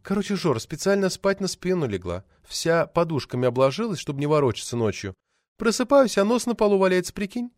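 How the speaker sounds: light female character, pitch climbing at the punchline; chatty actress. Acted.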